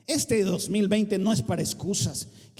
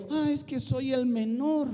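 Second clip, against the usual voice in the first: mock excuse; 5 semitones higher than usual. Mocking an excuse-maker.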